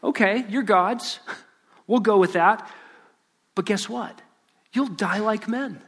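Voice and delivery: mock agreement with a sting; dry, sarcastic concession. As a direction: sarcastically play along, pausing between phrases. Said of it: "God sarcastically says to them".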